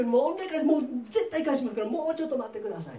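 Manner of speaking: high-pitched, hurried mock begging; pleading. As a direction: act out a desperate debtor's plea. Debtor begs the king for time.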